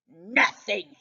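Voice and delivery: short, curt snap; snapped. Acted. Grumpy cat shutting down the dog's questions, curt snap. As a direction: cut the question off sharply. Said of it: "he snapped".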